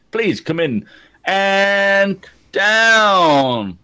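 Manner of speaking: very slow, drawn-out and high; slow laid-back controller. Retold or imitated. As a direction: stretch every word lazily. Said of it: "I don't think a Cali guy is the best idea".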